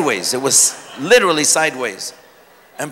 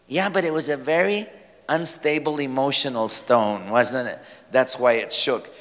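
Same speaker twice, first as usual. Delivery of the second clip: sarcastic; 4 semitones lower, 4 dB quieter than usual. Acted. Sarcastic mock objection.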